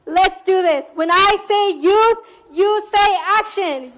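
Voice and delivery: pumped call to the crowd; hyped crowd warm up. Real, not acted. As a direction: rev the crowd up loudly. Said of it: "call and response chant".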